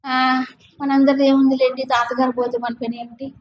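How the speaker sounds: mildly acted defeatist murmur; acted weakness. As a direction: play a helpless soldier giving up. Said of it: "ఇప్పుడు నేను బలహీనంగా".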